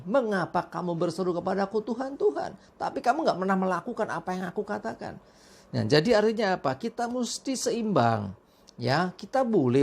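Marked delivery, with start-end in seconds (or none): 0.1-5.2 rebuking voice. Retold or imitated. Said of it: "ditegur seperti ini".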